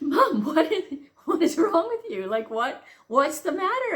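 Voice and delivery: high, loud mock alarm with a laugh; imitated bewildered son. Son asks crying mother what's wrong, bewildered. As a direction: raise pitch and volume, baffled, half laughing.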